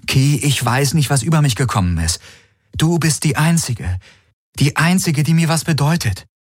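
high, pleading voice; plead, quickening; Galen's plea. A narrator's reading. Galen pleads with the absent Kirai, high and pleading. Wants to call her.

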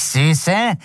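hoch und fremd gezischt, leicht gespielt; zischend. A narrator's reading. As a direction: ein gezischtes Wort einer anderen Figur. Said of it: "zischte es". (leicht gezischt)

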